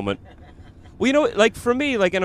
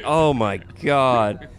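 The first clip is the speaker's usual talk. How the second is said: slow, drawn-out "oh my God"; mock dismay; 3 dB louder, much slower than usual. Comic retelling friends' cringe at his line, dismayed. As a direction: groan it slowly in disbelief.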